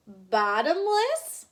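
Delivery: slow, drawn-out wondering rise; amazed question. Acted. Wife echoing her husband, slow and amazed. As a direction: savor the word in disbelief. Missus Watson amazed by popcorn.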